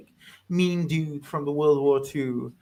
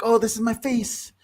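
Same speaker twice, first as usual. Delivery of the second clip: a lightly voiced character, raised pitch; Russian character voice; 6 semitones higher than usual. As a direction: show off your face with mild pride. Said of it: "He's like".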